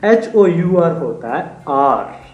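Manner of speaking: slow, deliberate spelling. Shown as a demonstration. Teacher slowly spells the word for students, letter by letter. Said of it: "बच्चे उसको mispronounce कर जाते हैं".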